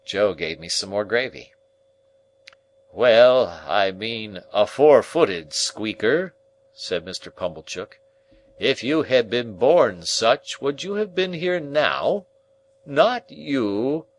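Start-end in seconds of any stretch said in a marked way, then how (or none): 2.9-14.1 loud, higher, slow pompous uncle. Acted. Pompous uncle lecturing the dinner guests, loud and slow. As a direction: boom out pompous table wisdom.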